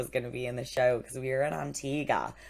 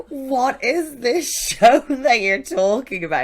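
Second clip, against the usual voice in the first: high, loud, slow mock Caribbean accent; attempted Caribbean accent; 10 semitones higher, 11 dB louder, slower than usual. Caribbean guys baffled by the show, in a laughing mock Caribbean accent. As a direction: draw it out in a hammed-up Caribbean voice. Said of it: "I can't do a Caribbean accent".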